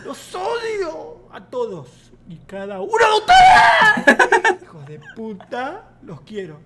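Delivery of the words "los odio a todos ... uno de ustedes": slow, high, very loud outburst; comic meltdown at the class; mock raging scream. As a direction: build to a hammed-up screech. Old teacher rages at class.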